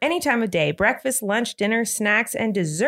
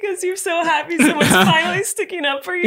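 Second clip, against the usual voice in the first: laughing; 5 semitones higher, slower than usual. Real, not acted. Teasing through laughter.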